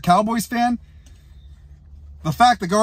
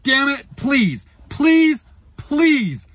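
pleading please; 6 semitones higher, 4 dB louder, much slower than usual. Real, not acted. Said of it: "begging the Eagles".

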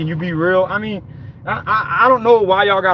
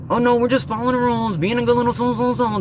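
higher-pitched mocking imitation of rule-followers; mock goody-goody; 5 semitones higher, faster than usual. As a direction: put on a higher, falsely innocent voice. Mimics obedient rule-following customers.

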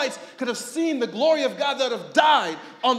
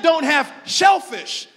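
mock commandment; 3 semitones higher, 6 dB louder, slower than usual. Quotes the law commandment.

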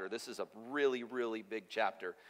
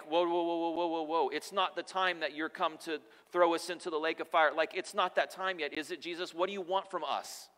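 rattled protest, slightly raised pitch; mock alarm; 3 semitones higher than usual. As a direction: imitate demons nervously backing off. Voicing alarmed demons meeting Jesus.

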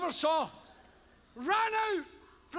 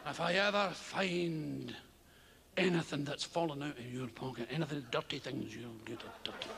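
much lower, low-voiced strict mother; stern mother; 12 semitones lower, 5 dB quieter than usual. Mother warning her son about condoms, stern low voice. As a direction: growl the threat like a stern mum.

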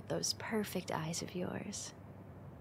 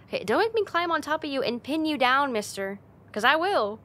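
fast, higher and louder mock threat; playful threat; 7 semitones higher, 8 dB louder than usual. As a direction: bluster it out, flustered. Flustered playful threat to Rumi.

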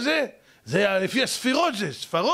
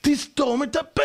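high, slow emphatic shout; shouted command; 6 semitones higher than usual. Acted. Lecturer telling husband to stay silent, shouted command. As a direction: stretch it out as a forceful order. Forceful repeat of the remark.

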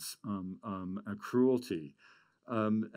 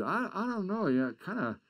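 a lightly voiced, higher, hesitant elder; a hint of Alec, raised in pitch and unsure; imitating Alec; 4 semitones higher than usual. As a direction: slip into the old man's halting voice. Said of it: "he suddenly said".

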